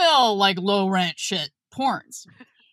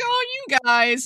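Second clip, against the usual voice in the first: touched aww; 4 semitones higher than usual. Retold or imitated. Teacher touched by her protective students, gushing. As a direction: coo it high, as if touched.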